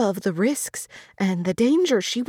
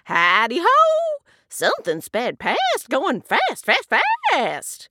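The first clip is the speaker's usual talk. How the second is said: high, louder storybook hare; excited hare reporting what sped by; 8 semitones higher, 5 dB louder, slower than usual. A narrator's reading. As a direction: hail them as a lively hare. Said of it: "Hare hops along and says".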